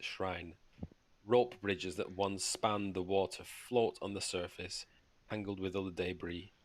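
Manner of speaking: measured descriptive reading; reading aloud. Acted. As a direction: read the scene out like a game master. Reads room description aloud.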